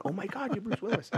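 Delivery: high starstruck squeal breaking into a laugh; mock the gushing fan while laughing; freaking out. Retelling the fan's outburst, high laughing squeal. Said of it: "she's just freaking out".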